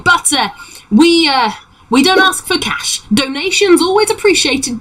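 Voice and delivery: high, coy sales pitch; halfling pirate. Acted. Halfling discussing payment with passengers, high-pitched voice. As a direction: explain the terms in a high halfling voice.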